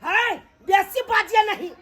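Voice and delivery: snapped out as a sharp rebuke; angry yell telling them to stop talking; angry shout. Acted. Quarrel with the in-laws.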